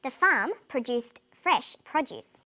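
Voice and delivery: slow, "produced" as pro-DUCED, "produce" as PRO-duce; contrasting word stress. Shown as a demonstration. Teacher reads a test sentence, contrasting stress on "produced" and "produce". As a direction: stress "produced" on its second syllable, "produce" on its first. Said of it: "how the stress in words can change meaning".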